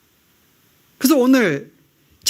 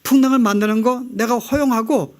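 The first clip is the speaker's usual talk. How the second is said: Jesus speaking; 2 semitones higher than usual. Retold or imitated. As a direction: speak as Jesus gently correcting his disciples. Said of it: "이야기합니다". (제자들을 바로잡는 예수님의 차분하고 단호한 목소리)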